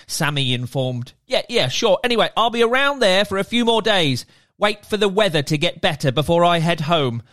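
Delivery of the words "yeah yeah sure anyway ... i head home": merman. Acted. Merman character voiced.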